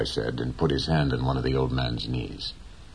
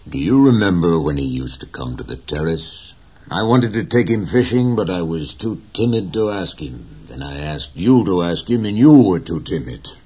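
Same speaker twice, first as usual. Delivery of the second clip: put-on young boy, eager; 2 semitones higher, 8 dB louder than usual. A narrator's reading. Boy's voice voiced by narrator.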